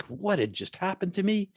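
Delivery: high, slow, dazed questioning; stretched-out, high-pitched disbelief, re-enacted; acted bewilderment. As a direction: ask as if utterly lost and disoriented. Acts out own bewilderment on waking.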